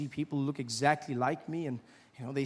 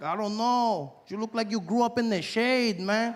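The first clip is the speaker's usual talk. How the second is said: imitated Latino guy; 4 semitones higher than usual. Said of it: "He's like".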